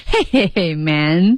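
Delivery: slow, imitated he-he-he greeting; laughed "hey". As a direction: mimic a chuckle turned into "hey man". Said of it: "笑着说的啊".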